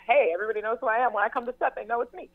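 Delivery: retold newfound confidence, sped up; proud. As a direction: announce it fast with a grin. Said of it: "I was like".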